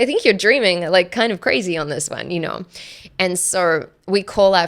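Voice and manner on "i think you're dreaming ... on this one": amused disbelief. Retold or imitated. Telling partner his land dream is crazy, laughing and louder. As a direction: tease him that he's dreaming.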